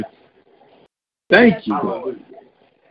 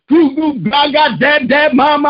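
put-on higher cooing baby babble, lightly done; imitating baby talk; 4 semitones higher than usual. Praying father imitates his baby's first words, mock baby babble. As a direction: coo the words like a toddler learning to talk. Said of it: "got her saying".

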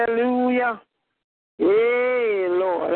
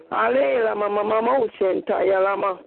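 speaking in tongues; faster than usual. Real, not acted. Prayer in tongues.

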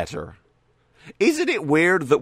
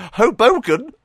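Hoboken? with a higher, rising, disbelieving tune; incredulous question; 9 semitones higher, 6 dB louder than usual. Real, not acted. Youtuber doubting the city name, incredulous rise. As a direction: ask Hoboken as if it can't be real. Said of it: "I swear they're making up these names".

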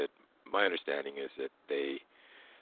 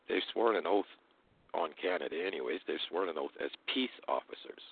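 toothless. Real, not acted. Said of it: "I don't have my dentures in".

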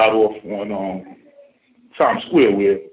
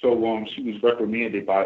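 ordinary talk, nothing marked

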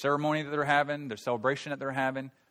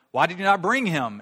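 indignant priests; 6 semitones higher, 9 dB louder than usual. Acted. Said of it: "the chief priests and the Pharisees said to them".

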